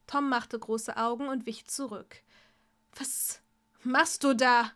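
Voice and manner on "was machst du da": louder, panicky question; panicked. Acted. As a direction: cry out in panic. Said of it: "fragte er panisch".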